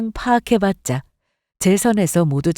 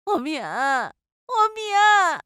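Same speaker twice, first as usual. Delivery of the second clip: wailing mother-in-law; 9 semitones higher, much slower than usual. Acted.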